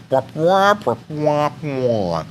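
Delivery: spluttered cartoon frog noise imitation; bouncy nonsense syllables like Crazy Frog. Shown as a demonstration. Streamer giving chat a little Crazy Frog, silly imitation. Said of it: "little bit of Crazy Frog".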